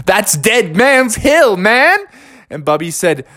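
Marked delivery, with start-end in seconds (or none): 0.0-2.0 awed emphasis. Acted. Iggy stresses danger of hill.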